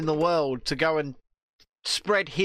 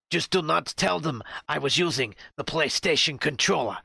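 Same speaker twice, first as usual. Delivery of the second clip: put-on lightly accented stiff address, read like a script; a hint of a mock wartime speech; mock Zelensky speech. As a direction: parody a leader reading a script. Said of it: "taking the piss out of here".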